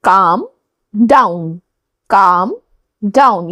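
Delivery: "calm" said without the l sound; silent l in calm. Shown as a demonstration. Teacher showing students how "calm" sounds, without the l. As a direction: drop the l in "calm", say it like kaam. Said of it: "यहां काल्म नहीं पढ़ना है".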